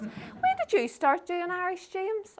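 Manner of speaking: high-pitched mock disbelief; astonished question. Congregant asking James about Irish, astonished. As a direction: quiz him in an acted high voice.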